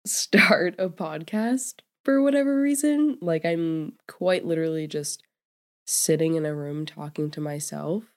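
stuffy, blocked-nose voice from a cold; nasal voice. Real, not acted. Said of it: "excuse my nasally voice".

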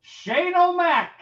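high, slow and loud name call; ring announcer. Acted.

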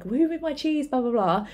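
mock moan pitched high. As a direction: moan it in mockery, trailing into filler. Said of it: "just moaning about".

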